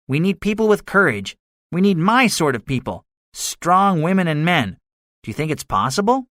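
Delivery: high-pitched soldier recruiting for his scheme; confident gunner. A narrator's reading.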